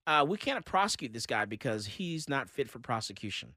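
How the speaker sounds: a lightly voiced official excuse; mock district attorney. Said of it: "the district attorney says".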